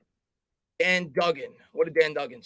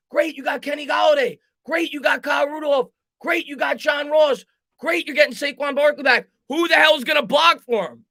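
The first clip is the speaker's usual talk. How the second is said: exasperated shout; 8 semitones higher, 4 dB louder than usual. Real, not acted. Frustrated fan ranting about draft.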